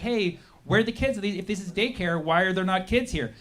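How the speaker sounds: genuine asking. Retold or imitated. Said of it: "asking very genuinely".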